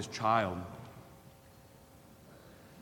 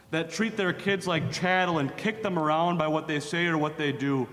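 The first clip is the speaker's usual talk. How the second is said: fervent preaching; 3 semitones higher than usual. Acted. Preacher condemning abusive fathers to congregation, fervent preaching. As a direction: thunder against the wicked fathers.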